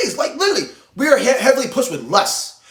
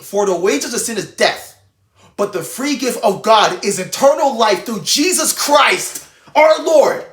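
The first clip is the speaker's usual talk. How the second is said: mean every word, build to the end; reading like you mean it; slower than usual. Shown as a demonstration. Preacher showing viewers how to read scripture, earnest and building. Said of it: "you have to read it like you mean it".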